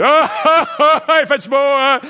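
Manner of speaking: high, loud laughing chatter; big booming voice. Retold or imitated. Driver greeting passengers, loud and high. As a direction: boom it out like a farmhand. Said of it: "il parle aux grosses voix".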